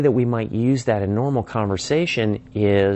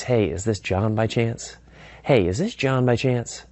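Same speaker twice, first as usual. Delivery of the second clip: lightly upbeat questioning greeting; hopeful, lucky find; 3 semitones higher than usual. Shown as a demonstration. Caller greets prospect by first name, friendly and hopeful. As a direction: greet as if pleased to have found them. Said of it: "the tone of my voice suggests that".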